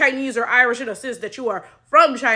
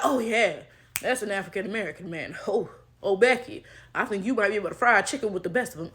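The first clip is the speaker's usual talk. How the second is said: softer, lower, quick mock voice of a clueless fan; mock naive commenter; 6 semitones lower, 8 dB quieter, faster than usual. Mocking white commenters who gush over the post, soft and quick. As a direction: lightly play the gushing white commenter, quieter and faster.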